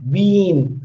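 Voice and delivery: "been" with the ee held long; lengthened vowel. Shown as a demonstration. Teacher explaining the two dots, lengthened "been". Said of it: "they show it is lengthening".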